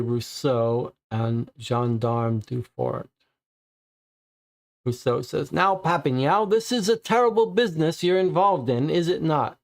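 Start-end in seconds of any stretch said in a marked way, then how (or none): 5.5-9.6 stern officer in a put-on French accent, pitched higher. Major Rousseau questions Papineau, in a hammed French accent. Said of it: "I'm gonna stop with the accent".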